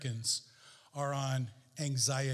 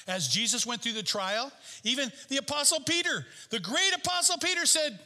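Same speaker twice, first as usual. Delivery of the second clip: building preaching; 8 semitones higher, 4 dB louder than usual. Real, not acted. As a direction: preach it with rising pitch.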